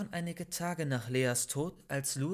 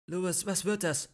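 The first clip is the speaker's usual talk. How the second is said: blurted out; 5 semitones higher, 4 dB louder than usual. Acted. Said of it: "stieß Maike hervor".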